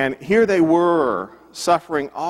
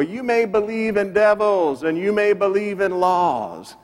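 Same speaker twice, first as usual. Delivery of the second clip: mildly mocking recitation of a lyric, raised pitch; a singer; 6 semitones higher than usual. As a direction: recite it as a jibe at a former friend. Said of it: "wrote a song to mock his former friend".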